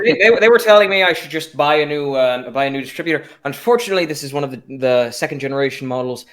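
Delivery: rambling car-nut monologue; babbling. Acted. Car guy talking to a non-car guy, babbling. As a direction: babble on through technical details without a real stop. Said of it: "I also start babbling about the".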